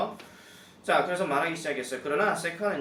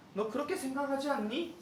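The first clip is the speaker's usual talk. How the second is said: 동료 흉내; 10 semitones higher than usual. Acted.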